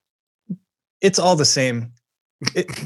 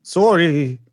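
fake European accent; 3 semitones higher than usual. Shown as a demonstration. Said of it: "ambiguous sort of European accent when you say sorry".

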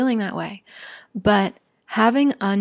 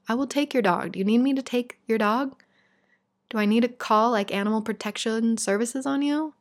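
pretend rebuke; 4 semitones higher than usual. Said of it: "propel me forward to say".

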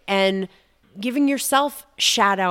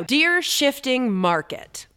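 letter to the shifting market. Acted. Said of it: "here's the letter for the shifting market".

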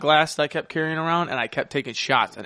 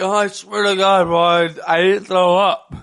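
mock drunk denial; 5 semitones higher, 7 dB louder than usual. Drunk friend voiced in story.

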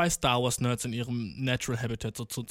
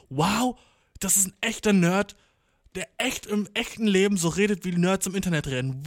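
höher und lauter, ungläubig begeistert; staunend, als sähe er ein seltenes Tier; begeistert erstaunt; 4 semitones higher, 4 dB louder than usual. Retold or imitated. Staunt über echten Nerd. (er staunt über den Nerd, höher und lauter)

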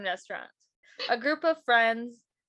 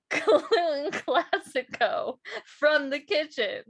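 grand waitress announcement; 4 semitones higher, slower than usual. Acted.

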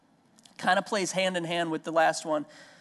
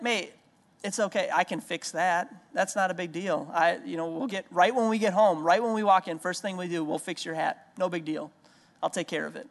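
put-on soothing a child. Father soothes crying daughter.

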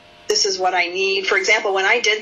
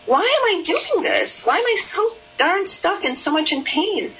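put-on distressed child; 6 semitones higher than usual. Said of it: "she was feeling like".

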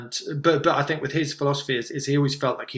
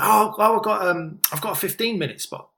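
higher-pitched, eager younger self; mock enthusiasm, pitched up; enthusiastic; 6 semitones higher than usual. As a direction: imitate yourself excitedly announcing news. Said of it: "when I was all enthusiastic".

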